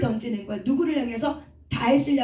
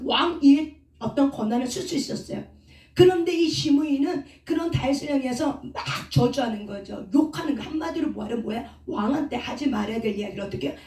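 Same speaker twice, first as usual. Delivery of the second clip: normal talking voice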